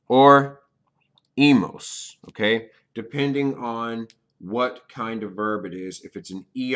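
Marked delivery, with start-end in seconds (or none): 1.4-2.2 emos with a clear Spanish e, firm; Spanish ending emos. Shown as a demonstration. Teacher modeling emos for Spanish students. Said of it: "will end in".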